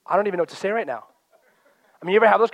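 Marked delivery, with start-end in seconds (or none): 0.0-1.0 laughing disbelief. Retold or imitated. Voicing a baffled listener.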